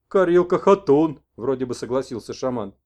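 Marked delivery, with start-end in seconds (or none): 0.1-1.2 slow, higher, louder; shaman messenger. Acted. Messenger half agrees to the old man's vodka, slow. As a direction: agree hesitantly.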